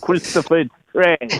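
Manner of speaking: lightly voiced actor impression; James Gandolfini. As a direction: mimic the actor's way of talking. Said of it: "James Gandolfini say".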